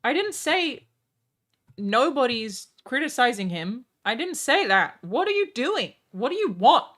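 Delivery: heated, high-pitched shouting; angry outburst. Real, not acted. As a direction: yell back at the critic in frustration. Ranting at a YouTuber.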